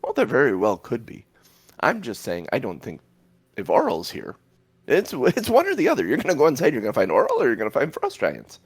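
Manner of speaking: lightly voiced orb, arguing in animated, swooping pitch; talking orb. Orb weighing Oral against the Frost Giants, lightly voiced and animated. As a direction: reason it out as an opinionated orb.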